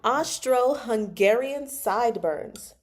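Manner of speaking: slow, careful "Austro-Hungarian sideburns"; really slow reading. Retold or imitated. Host sounding out an unheard word for herself, really slowly. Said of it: "read this word really slowly".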